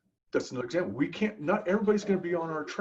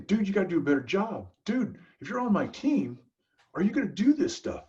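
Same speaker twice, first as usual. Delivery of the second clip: mild retold scolding; 6 semitones higher than usual. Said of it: "he's scolding him".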